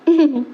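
short bashful giggle; wife's brief coy laugh; shy laugh. Acted. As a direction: let a small laugh slip through the sadness. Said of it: "என் மாடி சிரிச்சிட்டாப்பா".

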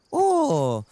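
high attempt at a Scottish lilt; attempted Scottish accent. Streamer trying Scotland's accent for viewers, botched Scottish. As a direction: try Scottish, slipping into Irish. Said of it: "no, that's Irish".

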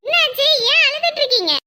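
high, urgent questioning; alarmed concern. Acted. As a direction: demand to know why she's crying. Visitor finds the mother crying.

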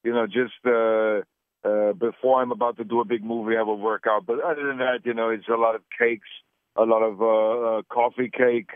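put-on Austrian accent, Arnold-style; Austrian-accented action star interview voice; Arnold Schwarzenegger impression. Arnold impression held throughout.

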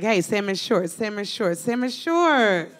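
hollering across the street at a guy, slowing on the last one; drawn-out street catcall; mock catcall. Comic catcalling a man in salmon shorts, mock holler.

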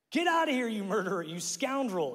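high, hammed-up shout of an accuser; mock shout. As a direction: fling it at the fleeing king. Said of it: "he shouted at David".

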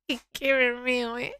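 slow, breaking into helpless laughter; laughing. Real, not acted. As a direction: talk through tears of laughter. Laughing at chat nickname.

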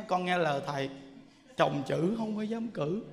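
meek reply. Retold or imitated. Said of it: "bà nói á".

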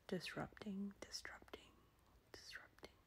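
fading whisper. Real, not acted. Repeating word while fading to whisper.

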